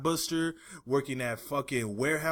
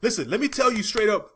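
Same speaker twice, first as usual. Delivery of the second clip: mock rant; 2 semitones higher, 4 dB louder than usual. Real, not acted. Ranting at gym posers.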